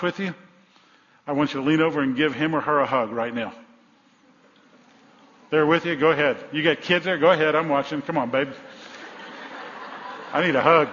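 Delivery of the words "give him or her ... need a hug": loud, eager prodding from the pulpit; loud urging. Real, not acted. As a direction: call out over a busy room. Urging congregation to hug spouses.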